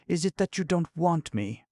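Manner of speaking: halting, high-pitched hesitation; stammering. A narrator's reading. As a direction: stumble over the question. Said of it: "she stammered".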